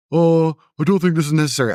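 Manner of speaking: lightly voiced nervous protest; meek boyfriend. Girl's boyfriend trying to calm things, lightly voiced nervous protest. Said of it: "and her man goes".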